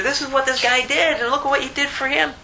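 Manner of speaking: high-pitched indignant complaint; indignant reporting. Acted. Slaves reporting a fellow slave to their master, indignant. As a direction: tell on him, voice pitched well up.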